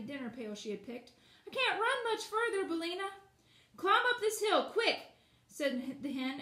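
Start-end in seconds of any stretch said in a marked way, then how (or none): 1.5-3.1 panting. A narrator's reading. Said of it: "panted the girl". 3.8-5.0 high, loud hen urging; urgent hen. A narrator's reading. Hen urges girl up rocks.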